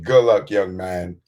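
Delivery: slow, dry, sarcastic brush-off; sarcastic dismissal. Retold or imitated. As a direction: say it like a dismissive exec, slowly. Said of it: "sarcastic white man".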